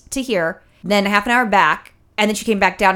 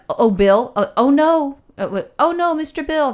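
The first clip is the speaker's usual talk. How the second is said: high, panicky "Oh no" cries; playful high-pitched comedy-sketch panic; Mister Bill; 7 semitones higher, 3 dB louder than usual. Retold or imitated. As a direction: imitate a frantic cartoonish wail. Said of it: "that Saturday Night Live thing".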